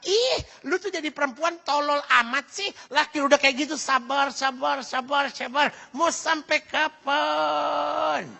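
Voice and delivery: acted-out sister's exasperation; exasperated sister scolding. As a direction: scold like a fed-up sister, stretching the last words. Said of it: "adiknya sendiri bisa bilang".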